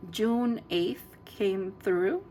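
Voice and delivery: talking through burps; holding back a burp. Real, not acted. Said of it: "I keep burping".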